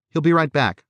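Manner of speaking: put-on high-pitched small child's voice; little girl. A narrator's reading. Daughter explains her imaginary friend's absence, little-girl voice. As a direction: answer brightly as a small daughter. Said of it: "the little girl said".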